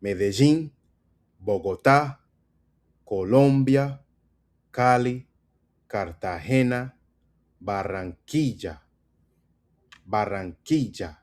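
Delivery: "Medellín" as meh-deh-ZHEEN, "Bogotá" stressed on TA; Colombian pronunciation drill. Shown as a demonstration. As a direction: drill each city Colombian-style, pausing after each, "Cartagena" with HE. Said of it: "Let's go through 'em".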